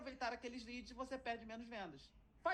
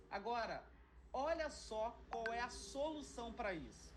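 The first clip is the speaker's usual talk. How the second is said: slower, selling the answer; raised voice. Shown as a demonstration. Salesman pitches the solution to a client, raised voice. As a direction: lift the voice a little for the solution. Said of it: "Aqui eu já levanto minha voz".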